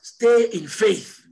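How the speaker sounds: preacher working up to full cry; building exhortation. Real, not acted. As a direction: stretch the first word, building to a shout.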